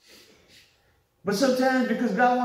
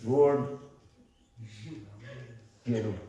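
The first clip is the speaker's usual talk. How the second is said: angry prayer; 11 semitones lower, 7 dB quieter, slower than usual. Retold or imitated. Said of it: "you can be praying in anger".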